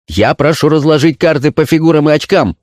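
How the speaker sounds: high, insistent demand; crying out. A narrator's reading. Officer demanding the cards be sorted, crying out. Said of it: "выкрикнул тот же офицер".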